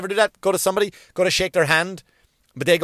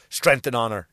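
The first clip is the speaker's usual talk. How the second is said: lower, mock-solemn salute; sarcastic; 5 semitones lower than usual. Joking with friend Timmy, sarcastically solemn. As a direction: say it sarcastically, as a joke. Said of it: "like sarcastically".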